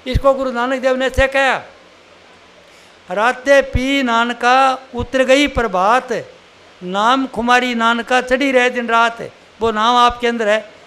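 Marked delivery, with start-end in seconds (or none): 3.1-9.3 slow, drawn-out scripture verse; verse recitation. Acted. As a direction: recite the couplet with long, measured vowels. Recites Guru Nanak's verse.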